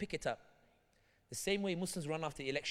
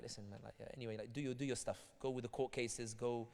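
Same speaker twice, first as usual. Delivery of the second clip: dismissive mumble; 7 semitones lower, 9 dB quieter than usual. Retold or imitated. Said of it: "Democrats will be like".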